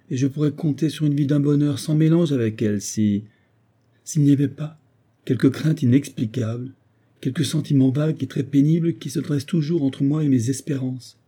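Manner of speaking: Edward, voix plus haute, tourmenté et suppliant; un fils hanté qui se confie, la voix qui monte; jeune veuf angoissé. Acted. (jeune homme désespéré, voix plus aiguë)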